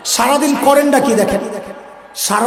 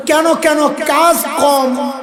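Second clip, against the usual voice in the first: puzzled questioner; 4 semitones higher, slower than usual. Retold or imitated. Questioner voiced in sermon.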